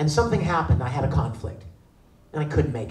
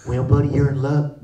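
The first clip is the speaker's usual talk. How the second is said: low-voiced fireman; 8 semitones lower, 4 dB quieter than usual. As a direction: reassure him in a deep rescuer's voice. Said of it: "I'm the fireman".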